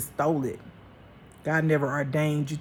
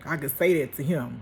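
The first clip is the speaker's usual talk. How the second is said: usual speaking voice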